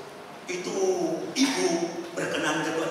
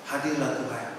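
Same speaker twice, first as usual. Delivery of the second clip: soft pleading prayer; 6 semitones lower, 6 dB quieter than usual. Retold or imitated. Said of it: "tapi saya begini dulu".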